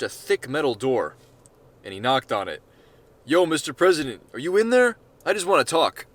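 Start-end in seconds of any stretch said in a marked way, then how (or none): 3.2-6.1 calling out. Acted. Gary calls through bunker door.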